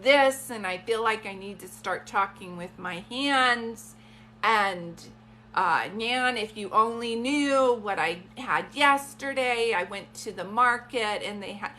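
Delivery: put-on New York-area accent, slowing into a tale; imitated grandmother's accent. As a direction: play the chatty grandma with an East Coast accent. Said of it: "I need to start talking like".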